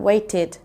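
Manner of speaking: waited in two syllables, ending in ID; teacher modelling the ID at the end of waited; ID sound. Shown as a demonstration. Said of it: "So there's the I D sound".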